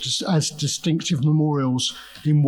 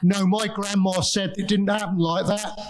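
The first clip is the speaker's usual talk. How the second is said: lightly voiced local heckler, pitched higher; local calling out; 5 semitones higher than usual. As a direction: mildly imitate a villager chiming in with a correction. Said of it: "members of the local community shouting out".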